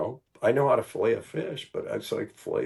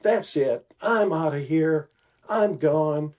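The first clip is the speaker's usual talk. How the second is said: mock offended exit; 4 semitones higher, 4 dB louder, slower than usual. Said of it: "he acts like somebody offended him".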